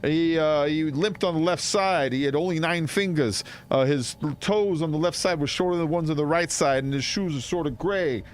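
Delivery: high-pitched New York dock worker; New Yorker. Acted. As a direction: play an innocent witness in a New York accent. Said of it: "I talk like a New Yorker".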